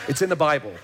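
It's in the Bible said with a chuckle; amused laughing repeat. Real, not acted.

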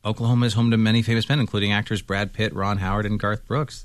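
reading aloud. Shown as a demonstration. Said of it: "That's what it said".

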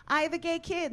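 high-pitched proud-parent announcement; chirpy announcement. Acted. Acts out announcing it.

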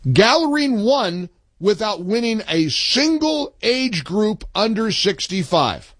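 "without winning a single age group" slow and deliberate; slow, pointed restatement, landing on "sixty-five"; emphatic repeat. Real, not acted. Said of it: "Can I repeat that, please?".

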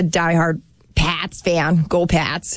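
drawn-out, hammed-up Boston accent; amateur Boston accent, stretching the vowels. Shown as a demonstration. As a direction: put on a slow Boston accent for a die-hard fan. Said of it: "that's my Boston accent".

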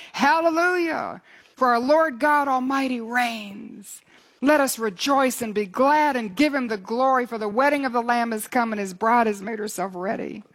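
high cry of praise, settling as it goes; exultant proclamation. Acted. Great multitude rejoicing at the Lamb's wedding, exultant proclamation. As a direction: start on a long ringing hallelujah, then proclaim. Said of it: "peals of thunder, shouting".

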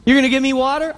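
a scoffing jab, half played; sarcastic question. Woman scoffs at Jesus having no bucket, mock disbelief. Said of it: "She's got an attitude".

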